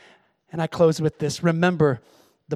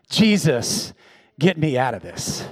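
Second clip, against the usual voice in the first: laughing plea; 6 semitones lower than usual. Real, not acted. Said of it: "I need a hug this morning".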